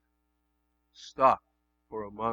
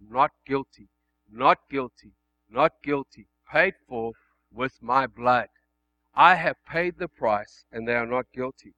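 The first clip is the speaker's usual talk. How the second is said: loud, measured courtroom declaration; lightly voiced Jesus; 7 dB louder than usual. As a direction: plead it firmly as an advocate, each phrase set apart. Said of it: "Jesus, as our advocate, is saying".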